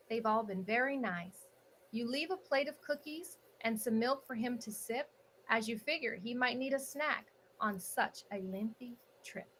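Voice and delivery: lilting, measured rhyming story narration; picture-book read-aloud. Acted. Host reads holiday picture book to online audience, storybook narration. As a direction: read each rhyming line with a swinging storybook cadence.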